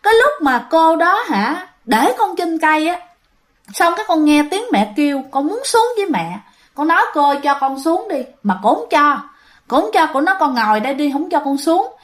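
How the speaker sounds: put-on a seven-year-old calmly telling her mom; a hint of a little girl, matter-of-fact; little girl answering nonchalantly. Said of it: "là nó còn nói tiếp nha".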